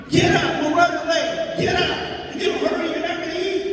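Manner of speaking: high hurried mock scolding; nagging mother. Comic imitates his mother hurrying him up high and fast. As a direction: rush the kid out of bed, mock-nagging. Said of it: "my mother was like this".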